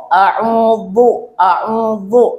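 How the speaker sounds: a'udzu said with a b-like d sound; wrong pronunciation. Shown as a demonstration. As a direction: demo the error, a'udzu with a bo sound. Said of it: "diganti dengan bo".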